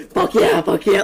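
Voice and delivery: loud, laughing fuck yeah; excited cheer. Retold or imitated. To the tall dude at the wall, a laughing excited cheer. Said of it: "I was so excited".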